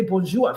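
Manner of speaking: "Bonjour" with a wrong "-zhua" ending; mispronounced French. Shown as a demonstration. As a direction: botch "Bonjour" like a learner, ending on uh. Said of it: "and I say it wrongly".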